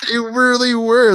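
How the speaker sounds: high, loud half-crying laugh. Real, not acted. Friend laughing while recalling the bus kids. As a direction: crack up through the words.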